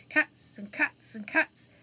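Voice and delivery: a hint of a bewildered cockney; lightly voiced rough burglar. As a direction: wail in disbelief at the cats.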